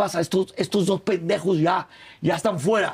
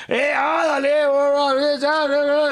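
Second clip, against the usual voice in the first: mock Nicaraguan accent; 6 semitones higher, slower than usual. The Nicaraguan brother-in-law greeting the guests, faked accent. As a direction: rattle off a hammed-up Nicaraguan accent. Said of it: "no puedo hacer el acento".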